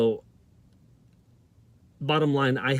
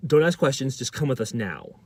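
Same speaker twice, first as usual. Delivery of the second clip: retold anger. School staff cutting off the student's question, mildly angry. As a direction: imitate an impatient, angry escort. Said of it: "They're so mad".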